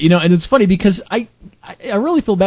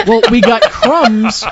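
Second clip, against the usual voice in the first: slow laughing punchline; amused slow delivery; laughing slowly; 5 semitones higher, 4 dB louder, much slower than usual. Real, not acted. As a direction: drag it out through laughter.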